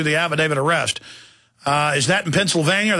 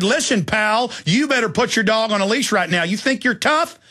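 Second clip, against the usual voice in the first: higher, pushy threat to a neighbor; tough challenge; 6 semitones higher than usual. Retold or imitated. Father confronting the pit bull owner, raised challenging voice. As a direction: square up and warn him off.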